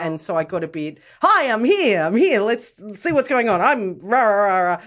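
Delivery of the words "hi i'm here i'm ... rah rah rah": loud, high, bouncy entrance; over the top. Retold or imitated. Tipsy woman announcing herself to the room, loud and bubbly. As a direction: burst in all pumped up. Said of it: "I get a little bit over the top".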